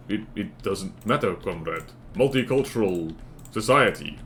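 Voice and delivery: soft, low put-on Soviet-style comrade accent; mock comrade accent. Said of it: "your accent is inconsistent".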